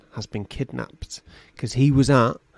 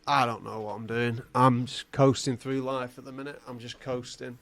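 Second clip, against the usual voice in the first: soft, resigned mumbling confession; aimless admission; 8 dB quieter than usual. Acted. Captive admitting he's drifting through life, quiet resignation. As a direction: say it softly, trailing away.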